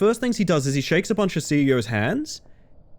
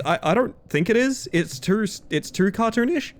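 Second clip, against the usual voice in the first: ordinary talk, nothing marked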